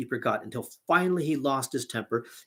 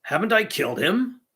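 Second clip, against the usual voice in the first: shocked exclamation; 8 semitones higher, 3 dB louder than usual. A narrator's reading. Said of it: "Big Klaus exclaimed".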